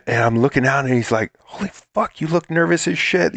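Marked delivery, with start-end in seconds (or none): 1.4-3.3 much higher, delighted director shout-out; excited director. Retold or imitated. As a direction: praise the actor's nerves with glee. Excited director praising take.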